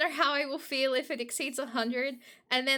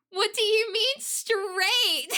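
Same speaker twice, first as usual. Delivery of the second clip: baffled question; 8 semitones higher, 5 dB louder, slower than usual. Retold or imitated. Retelling confusion over font advice.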